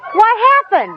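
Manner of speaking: high, laughing what happened; laughing disbelief. Retold or imitated. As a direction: ask it through a burst of laughter. Wife's startled question, laughing.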